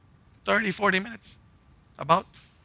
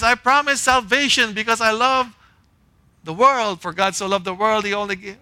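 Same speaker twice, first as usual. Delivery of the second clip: voicing God; 5 semitones higher, 3 dB louder than usual. Preacher voicing God's promise.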